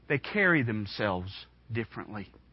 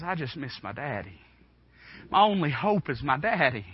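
quiet longing. Retold or imitated. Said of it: "he says".

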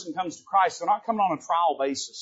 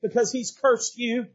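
high, loud, slow outraged cry; outraged demand; 8 semitones higher, 6 dB louder, slower than usual. Acted. Abishai demands Shimei's death, loud and outraged. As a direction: rage at the dead dog. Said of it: "and he says".

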